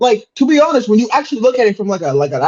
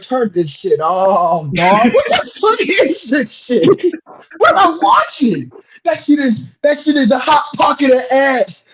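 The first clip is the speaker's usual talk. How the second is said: disgusted rant; 4 semitones higher than usual. Retold or imitated. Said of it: "we were like".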